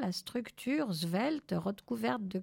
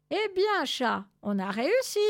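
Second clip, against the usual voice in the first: relieved triumph; 5 semitones higher, 4 dB louder than usual. Acted. Triumph after the flight.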